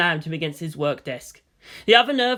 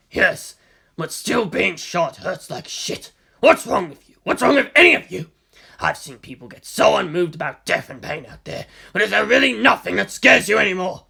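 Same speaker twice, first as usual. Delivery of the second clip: Misato's voice; 5 dB louder than usual. Acted. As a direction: scold them in disbelief. Misato berates the soldiers.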